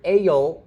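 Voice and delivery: "Ale" as ay-yul, with a y in the middle; two syllables. Shown as a demonstration. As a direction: let a y glide split "Ale" in two. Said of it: "It's two syllables".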